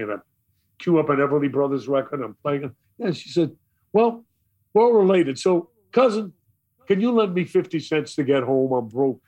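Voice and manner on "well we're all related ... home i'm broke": lightly voiced little old lady, raised pitch at first; a hint of a sweet old lady asking a favor; higher-pitched opening, easing down into a plea. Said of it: "this little old lady".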